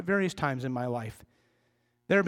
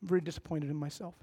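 small, quick, hushed confession with a slight quiver; mock-contrite kid, softly rushing the words; lightly acted quivering apology, much quieter; little quiver; 3 semitones lower, 7 dB quieter, faster than usual. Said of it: "a little quiver".

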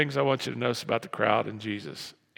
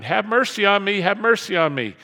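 raised, repeated cry for mercy; shouted plea; 6 semitones higher, 7 dB louder than usual. Retold or imitated. Blind man shouting from the sideline, raised pleading call. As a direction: imitate a beggar calling out, higher and louder. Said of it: "he's shouting".

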